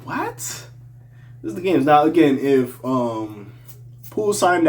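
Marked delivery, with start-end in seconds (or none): 0.0-0.4 a high, quick "what?", pitched far up; high and incredulous. Real, not acted. Disbelief at the rumor. 0.4-1.8 slow whisper, drawn out; whispered with disbelief; hushed aside. Real, not acted.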